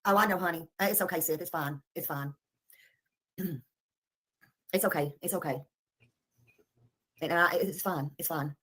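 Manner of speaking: quiet, near-whispered self-calming; soft reassurance. Real, not acted. Settling herself and Sid with soft hushed words. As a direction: hush it down, telling Sid it's fine.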